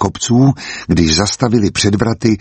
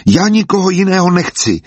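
sudden high outburst, close to tears; blurted out; 10 semitones higher than usual. A narrator's reading. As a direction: blurt it out much higher, near crying. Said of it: "vyhrkl Filip a rozplakal se". (vyhrknuté, o hodně výš, na pokraji pláče)

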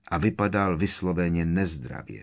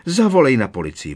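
loud, higher urgent order; acted alarmed cry; 5 semitones higher, 8 dB louder, faster than usual. Aunt telling her husband to call police, alarmed cry. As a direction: cry out for help in character.

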